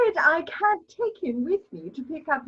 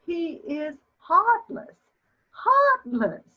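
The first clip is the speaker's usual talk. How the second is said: dismayed lament; slower than usual. Acted. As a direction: wail it in wounded indignation. Mother laments her heartless son.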